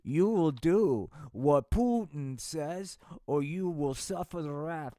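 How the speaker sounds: slow, heavy menacing dictator; mock slow villain threat; Putin voice. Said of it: "Putin said".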